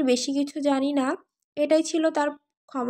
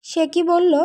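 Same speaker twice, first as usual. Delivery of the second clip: raised, urgent question; anxious question; 3 semitones higher, 6 dB louder than usual. Acted. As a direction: ask urgently what she said. Friend asks anxiously after call.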